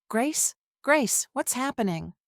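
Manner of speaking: cracked confused voice. Acted. Wife bursting in on the raid, faking confusion in a cracking voice. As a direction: play the frightened friend, voice breaking. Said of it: "My voice cracked perfect".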